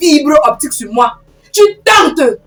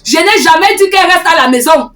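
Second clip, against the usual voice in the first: mildly raised, insistent self-defence; heated protest; 3 semitones higher than usual. Acted. Woman denying she kept the girl home, heatedly protesting. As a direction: argue back with some heat. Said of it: "tu arrêtes de me crier dessus".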